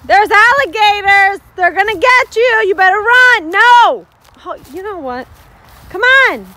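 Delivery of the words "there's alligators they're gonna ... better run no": loud, teasing scare tactic; playful warning. Pretend. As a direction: spook the kid into moving. Mom teasingly warning about alligators.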